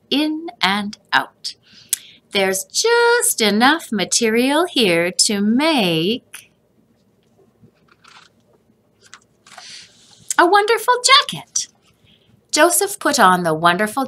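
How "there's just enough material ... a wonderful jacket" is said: a grandpa sure of his idea; grandfather figure. A narrator's reading. Grandfather beams at Joseph over the jacket. Grandfather voiced while tailoring.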